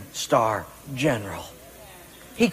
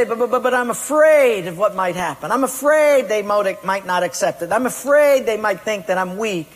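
fearful excuse; 4 semitones higher, 4 dB louder than usual. Retold or imitated. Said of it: "But you say".

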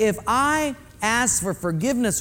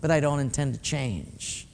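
fading fake sorry. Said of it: "so we say".

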